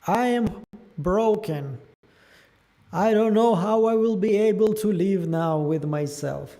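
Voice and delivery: crackling mic noise; crackly usb mic. Real, not acted. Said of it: "it's not the food crackling, it's your mic".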